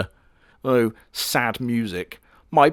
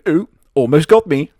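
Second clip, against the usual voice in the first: taunting; 5 semitones higher, 6 dB louder than usual. Retold or imitated. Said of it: "by going".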